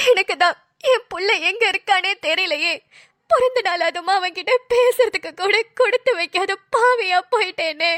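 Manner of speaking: breaking into a sob at the end; lament, sobbing by the last word; grieving lament. Acted. To her mother, grieving lament ending in a sob.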